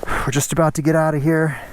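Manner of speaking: muffled behind a helmet visor; talking inside a closed helmet. Real, not acted. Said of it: "Visor's fogging up".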